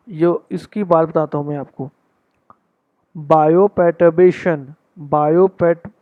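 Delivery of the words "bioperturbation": bioperturbation spelled out very slowly, bio-per-tur-bation; broken into parts. Shown as a demonstration. Teacher shows students how he practised the word. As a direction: chunk bioperturbation syllable by syllable. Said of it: "तोड़ तोड़ के पढ़ के ही practice की है".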